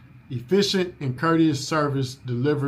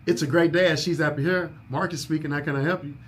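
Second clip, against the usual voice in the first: controlled greeting. Shown as a demonstration. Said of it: "we answer the phone with control".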